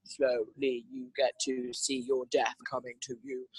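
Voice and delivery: a hint of a slow, ominous taunt; ride voice. To her listeners, voicing the ride, lightly ominous slow taunt. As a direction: draw it out, savouring the dread. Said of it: "they're like".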